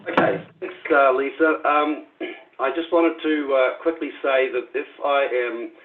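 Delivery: slightly slurred, lozenge in mouth; lisping. Real, not acted. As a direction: talk around a big cough drop. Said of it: "lisping or, uh, sounds like I'm slurring my words".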